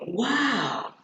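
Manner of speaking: surprised exclamation. Shown as a demonstration. Teacher showing class the strong feeling, surprised. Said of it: "They'll be surprised".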